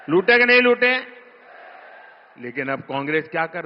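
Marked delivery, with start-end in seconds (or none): 0.1-0.9 नहीं pushed up high and louder; louder challenge. Real, not acted. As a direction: demand an answer from the crowd. (ज़ोर से चुनौती भरा सवाल)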